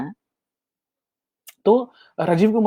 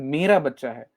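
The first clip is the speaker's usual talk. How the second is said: fond ownership; 5 semitones lower than usual. Shown as a demonstration. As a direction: claim the child lovingly. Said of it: "आप बड़े प्यार से बोलते हैं ना".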